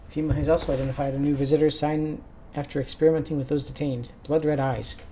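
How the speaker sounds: lightly put-on newsreader delivery; news read. Anchor reports on the visitor invasion, news-read style. Reads game's news bulletin.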